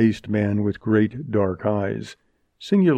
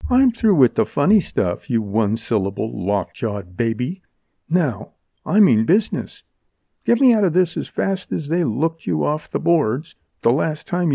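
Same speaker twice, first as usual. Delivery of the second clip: higher-pitched, scornful slangy woman; impatient heroine; 5 semitones higher than usual. Acted. Jerry demands to be let out, with impatient scorn. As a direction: lay into him, done with joking. Voices the heroine losing patience.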